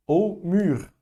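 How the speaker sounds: mûr with French rounded u; mûr said as a French model; French model word. Shown as a demonstration. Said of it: "Qual que é a diferença? Nenhuma".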